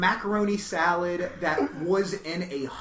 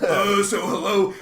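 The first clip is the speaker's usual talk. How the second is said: slow, hesitant, goofy "hello"; awkward white comic; 5 semitones higher, 10 dB louder than usual. Retold or imitated. A comic walking out to the crowd: slow awkward hello. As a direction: shuffle on stage and greet them awkwardly. Comic walks onstage meekly.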